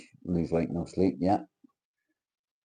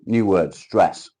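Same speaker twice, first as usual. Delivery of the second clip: slow, loud and stretched out; drawn-out reading; 8 dB louder, much slower than usual. Acted. Reading the word stress to viewers, slow and loud. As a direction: drag each word out for effect.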